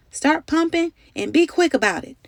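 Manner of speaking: high urgent command; shouted order. A narrator's reading. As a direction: drive the pumpers on. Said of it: "the captain shouted".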